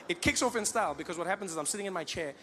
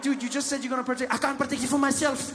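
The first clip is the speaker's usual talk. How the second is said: joking comeback; 8 semitones higher, 6 dB louder than usual. Retold or imitated. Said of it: "Then I'm like".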